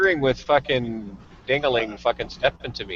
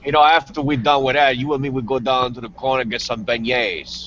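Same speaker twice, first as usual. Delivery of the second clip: put-on Cajun accent. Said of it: "Gus has a penchant for accents".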